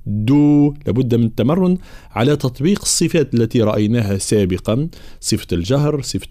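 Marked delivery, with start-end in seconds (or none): 0.1-0.7 "دو" held long with hard d; firm voiced d in a long "دو"; voiced dal. Shown as a demonstration. Teacher correcting the dal, "دو" clearly voiced. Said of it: "ثم الدال".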